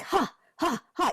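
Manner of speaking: high, soft chanted "ha, ha, ha"; clearing "ha" demo. Shown as a demonstration. Teaching listeners a clearing chant, demoed high and soft. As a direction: show the chant lightly and high. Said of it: "just the word, "Ha".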